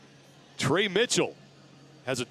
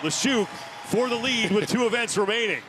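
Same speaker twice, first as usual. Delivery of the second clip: excited call; 6 semitones higher than usual. Real, not acted. Calling the lead change.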